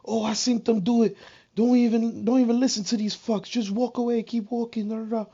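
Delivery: lightly voiced old lady waving the kid off; old lady on the corner. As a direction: voice her as a bystander telling you to walk away. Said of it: "she was like".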